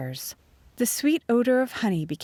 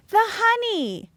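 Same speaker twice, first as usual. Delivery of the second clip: high, loud alarmed cry; 5 dB louder, slower than usual. A narrator's reading. Narrator crying out as the honey burns, alarmed. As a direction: shout it in sudden alarm. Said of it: "I cried".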